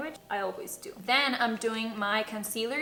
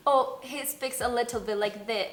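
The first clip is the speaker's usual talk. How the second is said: light imitation of a British accent; British accent attempt. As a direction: try out a bit of British. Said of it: "Your boyfriend speaks British English".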